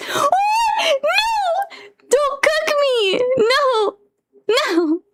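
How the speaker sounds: high, laughing mock panic. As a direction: plead not to be cooked. Model being cooked panic.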